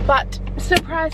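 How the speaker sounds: drawn-out teasing surprise; playful reveal. Real, not acted. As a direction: tease the surprise slowly. Teasing announcement.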